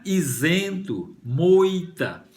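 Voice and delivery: isento, moita drawn out as model words; slow articulation. Shown as a demonstration. Teacher linking isento, moita to the numbers, slowly articulated. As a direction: stretch isento, moita syllable by syllable. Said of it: "O dois termina com is".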